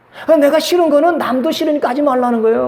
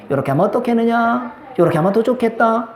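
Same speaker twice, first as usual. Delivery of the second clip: gentle suggestion. Shown as a demonstration. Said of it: "그러면 다 좋잖아요".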